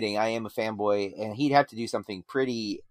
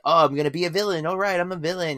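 higher, lightly mocking actor playing villain; 6 semitones higher, 3 dB louder, faster than usual. Critic mocking an unconvincing film villain, mock acting. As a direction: mimic an actor announcing his villain act. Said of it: "I just see him acting".

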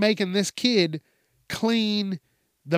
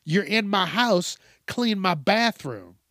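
mock angry homeowner; 4 semitones higher than usual. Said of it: "And the guy's like".

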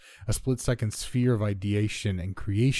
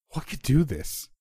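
raised, high-pitched shout; 7 semitones higher than usual. A narrator's reading. Friend to narrator as the sky vanishes, shouting. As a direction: shout it over the hurricane, voice pitched up. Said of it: "he shouted".

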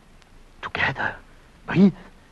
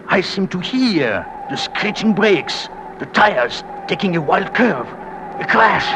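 slow dread climbing to a higher cry; mounting dread; 3 semitones higher than usual. Acted. Husband imagining his wife's crash, dread mounting. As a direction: build steadily towards the final word.

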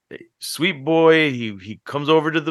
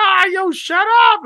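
retold snapping shout. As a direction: blurt it out, losing your cool. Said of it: "I lost my shit for a second".

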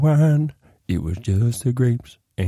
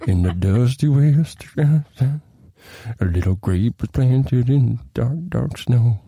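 slow, grand storybook narration; epic fantasy narrator; much slower than usual. Acted. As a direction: tell it like an epic saga, dragging each word. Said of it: "We have gone from Games of Thrones to".

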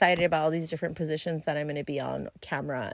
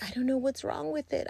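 mock sad; 6 semitones higher, 7 dB quieter, faster than usual. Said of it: "And I'm like".

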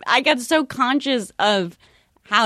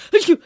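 a small stagey achoo; half-hearted pretend sneeze; fake sneeze; 8 semitones higher, 5 dB louder than usual. Shown as a demonstration. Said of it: "I had to fake sneeze".

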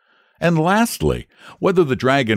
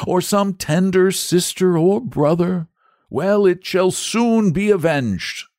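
noble knight; 9 semitones higher than usual. Acted. Noble knight pledging vengeance.

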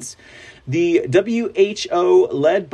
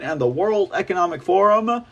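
normal talking voice

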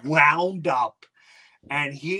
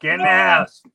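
stern dad; 3 semitones higher, 5 dB louder than usual. Retold or imitated. Dad calling son inside.

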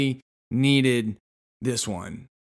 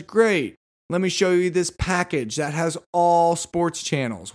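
lightly raised pitch; eager saleswoman; 4 semitones higher than usual. Retold or imitated. Saleswoman offering a sports package, mildly eager. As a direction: pounce on the opening. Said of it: "And she says".

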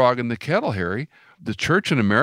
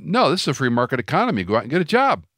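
quick, higher, pushing back hard; heated retort; 5 semitones higher, faster than usual. Retold or imitated. Retelling his reply to the pastor, quick and raised. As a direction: fire it back at him fast.

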